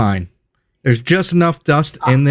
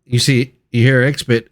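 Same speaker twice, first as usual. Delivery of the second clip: ordinary delivery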